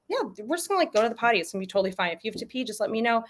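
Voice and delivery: casual, unbothered parent voice; lightly casual, easygoing parent; breezy nonchalance. Shown as a demonstration. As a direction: act like it's no big deal. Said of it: "act like".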